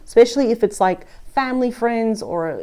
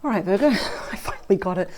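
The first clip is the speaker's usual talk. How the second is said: usual speaking voice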